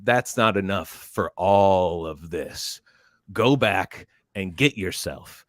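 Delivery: slow, deliberate command; imitated instructor's order. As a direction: spell out the order slowly, lightly playing the instructor. Drill instructor ordering recruit back.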